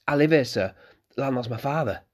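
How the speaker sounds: put-on eager young innkeeper's son; young Malcolm.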